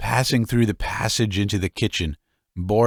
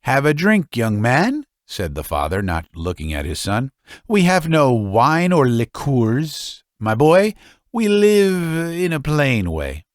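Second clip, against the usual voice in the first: put-on old father, high and hearty; 5 semitones higher, 3 dB louder than usual. Father offers vodka.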